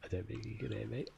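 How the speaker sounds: fast near-silent aside; barely audible. Real, not acted. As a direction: mumble it under your breath. Quiet aside, low volume.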